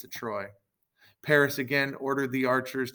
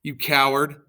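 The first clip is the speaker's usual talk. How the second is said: louder, higher angry shout; 4 semitones higher, 5 dB louder than usual. A narrator's reading. Dying Achilles shouting at Paris, loud and angry. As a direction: hurl it at the coward. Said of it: "Achilles began to shout".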